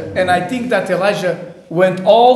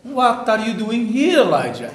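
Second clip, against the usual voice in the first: voice of God; 3 semitones higher than usual. Acted. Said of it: "there came a voice to him and said".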